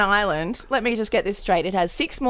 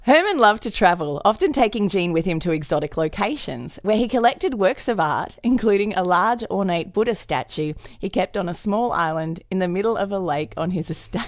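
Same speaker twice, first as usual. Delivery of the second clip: calm read-aloud narration; story narration. Acted. Reads a story passage.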